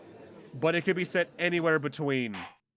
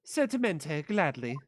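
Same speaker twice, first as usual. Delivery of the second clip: put-on Italian accent; slower than usual. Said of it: "do I have to do an Italian accent".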